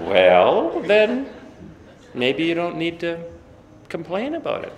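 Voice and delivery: mom's retort. Retold or imitated.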